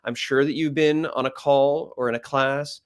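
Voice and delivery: unvarying droning pitch; level, tedious lecture voice; monotone. Shown as a demonstration. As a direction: drone on without any ups and downs. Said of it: "we just talk monotone".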